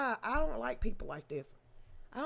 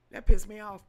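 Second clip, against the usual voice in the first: sudden loud angry burst; loud real anger after faltering; 11 dB louder than usual. Real, not acted. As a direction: spit it out in anger. Angry outburst after stammer.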